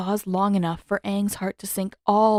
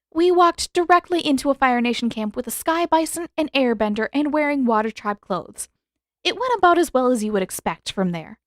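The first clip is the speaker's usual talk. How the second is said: exasperated; 6 semitones higher, 4 dB louder than usual. A narrator's reading. Katara cutting in.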